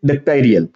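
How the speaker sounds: "डिक्टेरियल" with an open AI sound in the middle; model pronunciation. Shown as a demonstration. Teacher answering own question, modelling the word clearly. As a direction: say "डिक्टेरियल" as dik-TAI-ri-yal, falling. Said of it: "क्या पढ़ेंगे".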